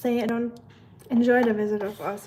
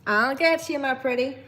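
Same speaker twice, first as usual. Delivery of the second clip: put-on Tennessee accent; 3 dB louder than usual. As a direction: put on your best Tennessee twang. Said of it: "Use your best Tennessee accent".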